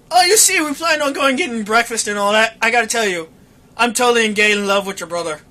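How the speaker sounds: sarcastic fake confession; sarcastic response. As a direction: explain it with dry sarcasm. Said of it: "That was my sarcastic response".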